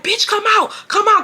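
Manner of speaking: high-pitched challenge, half-yelled; retold angry high yell; mock screaming. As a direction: call her out in mock fury. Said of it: "I'm literally screaming".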